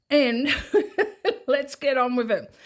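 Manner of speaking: laughing through the words, shaking off the worry; a nervous laugh to pull herself together. Real, not acted. Vlogger laughing off money stress to her viewers, laughing.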